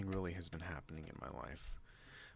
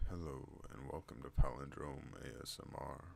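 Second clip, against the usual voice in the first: measured, slightly lowered welcome; deep voice greeting; 3 semitones lower than usual. Shown as a demonstration. Vlogger repeating the channel welcome, lower and evener voice. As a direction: settle into a deeper, more even voice.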